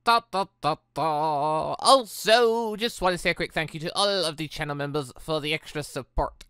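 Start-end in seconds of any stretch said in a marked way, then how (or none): none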